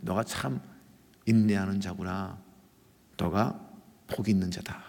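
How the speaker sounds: soft, low voice of God, imitated; hushed, tender pronouncement, lightly acted; gentle divine blessing. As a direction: speak a quiet, low affirmation. God's gentle verdict, voiced by preacher.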